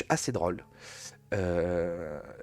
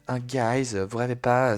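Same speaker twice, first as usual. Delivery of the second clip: imitating her "vous rêvez pas", a bit louder; mock influencer; 2 semitones higher, 4 dB louder, slower than usual. Streamer parrots the influencer's opener, mocking her.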